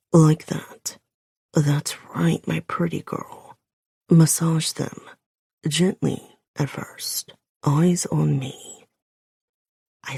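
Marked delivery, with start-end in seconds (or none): 0.1-8.9 lightly voiced man, coaxing and partly whispered; through his teeth. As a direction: praise her in a low man's voice. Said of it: "He speaks through his teeth".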